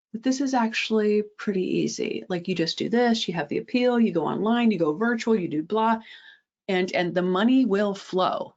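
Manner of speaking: mock-easy sales pitch, sarcastic. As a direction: say it as if it's all so simple. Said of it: "I'm being a little sarcastic here".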